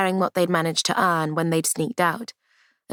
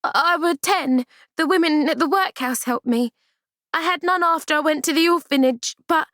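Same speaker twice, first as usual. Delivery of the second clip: put-on higher, stammering girl; frightened stammer; 11 semitones higher than usual. Amy stammers to the doctor, frightened. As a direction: stumble out the answer in fear. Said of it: "frightened Amy into stammering".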